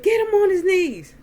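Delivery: imitating a bellowed command; barked order. Uncle ordering men to force the beaten man down, barking. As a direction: shout it high and loud. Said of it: "Earl just started barking orders".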